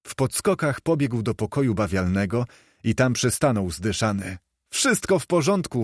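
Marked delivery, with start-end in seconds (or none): 4.7-5.8 raised, breathless call of joy; excited call. A narrator's reading. Scrooge looking round his room, calling out elated. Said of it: "wołał".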